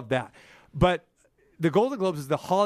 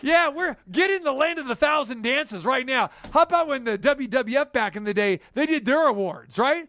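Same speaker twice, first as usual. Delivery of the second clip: wrestling promo; 7 semitones higher than usual. Pretend. Wrestling voice over the music.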